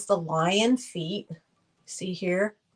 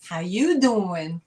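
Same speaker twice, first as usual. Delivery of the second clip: New York greeting; slower than usual. Shown as a demonstration. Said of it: "I do the 'how you doing'".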